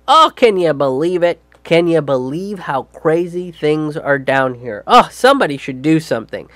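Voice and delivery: a hint of an insincere politician touring the border; fake concerned politician. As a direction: act out a shallow photo-op visit. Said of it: "be like".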